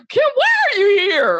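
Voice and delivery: high, bright voicing of confused friends; mock-surprised friends; puzzled friends. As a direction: play the friends asking, baffled. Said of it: "they're like".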